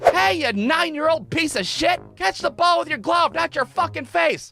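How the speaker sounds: mock heckling from the stands; mocking heckler. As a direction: jeer at the kid like a cruel parent. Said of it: "nobody that day was like".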